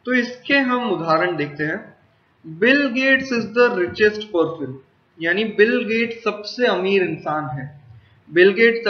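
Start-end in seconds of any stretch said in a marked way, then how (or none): 2.6-4.7 slow, spaced example sentence; unhurried classroom read of an example. Shown as a demonstration. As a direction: say each word so students catch it. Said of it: "teacher reads example sentence".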